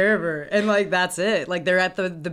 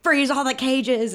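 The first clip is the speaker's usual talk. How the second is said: higher, louder, drawn-out call; mock rallying cry; 7 semitones higher, 5 dB louder, slower than usual. Motorcycle Boy in the pet store setting animals free, mock rallying cry. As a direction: cry it out slowly like a liberator.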